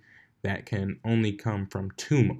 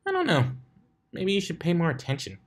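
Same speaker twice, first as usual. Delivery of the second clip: teasing; 9 semitones higher, faster than usual. Acted. Teasing Blitz.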